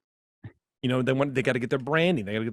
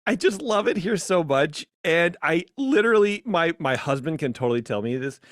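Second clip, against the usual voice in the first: higher, sappy mock emotion; gushing fan parody; 5 semitones higher than usual. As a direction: play the weepy superfan. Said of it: "you can hear me smiling".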